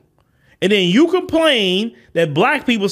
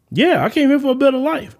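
lightly voiced opponent, pitched higher; conceding opponent; 4 semitones higher than usual. Immigrant conceding the point in an imagined debate, lightly mimicked, higher. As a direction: answer higher, as the other party admitting it. Acts out the other person's concession.

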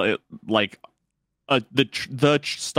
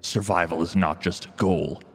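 horror trailer voice; 4 semitones lower than usual. Pretend. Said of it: "stock trailer voiceover".

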